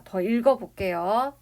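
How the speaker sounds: ordinary delivery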